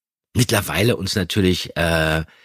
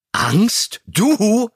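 much higher, incredulous burst; spluttered in disbelief; 11 semitones higher, 3 dB louder than usual. Acted. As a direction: blurt it out as if about to laugh. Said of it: "Prustete Peter los". (ungläubig herausgeprustet, viel höher)

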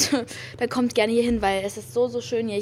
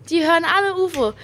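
repeated higher and louder; 6 semitones higher, 6 dB louder than usual. Retold or imitated. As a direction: say it again, raised and emphatic. (noch einmal, höher und lauter)

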